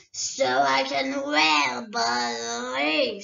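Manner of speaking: a great dragon toying with a thief; dragon Smaug. Acted. Smaug answers.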